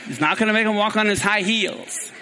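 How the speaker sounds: laughing. Real, not acted. Laughs at his own slip.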